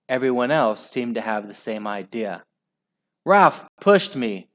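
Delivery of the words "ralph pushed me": high, slow, loud complaint; shriek. A narrator's reading. Al telling on Ralph, shrieking complaint. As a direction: shriek the accusation. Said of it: "shrieked Aerobic Al".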